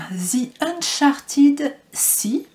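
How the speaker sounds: slow, careful English card title with a French accent. Real, not acted. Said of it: "Vous verrez mon accent magnifique". (anglais lent avec accent français)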